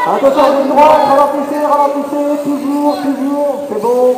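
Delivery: loud, high urgent call; shouted warning. Real, not acted. Announcer telling drivers to slow.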